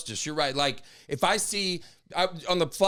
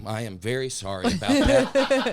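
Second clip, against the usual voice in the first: sarcastic apology; 4 semitones lower than usual. Retold or imitated. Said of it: "I was so sarcastic".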